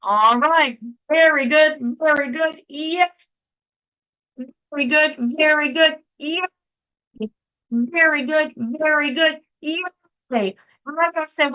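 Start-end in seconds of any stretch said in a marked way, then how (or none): 1.1-9.8 high, bright chant of praise; cheer. Shown as a demonstration. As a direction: cheer the group on. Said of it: "when you do very good, very good, yay".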